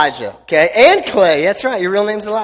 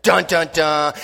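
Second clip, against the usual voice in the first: imitated suspense sting, "dun, dun, dun"; mock dramatic sting; slower than usual. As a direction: voice a TV drama cliffhanger cue. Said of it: "where, like, the Kardashian drama comes in".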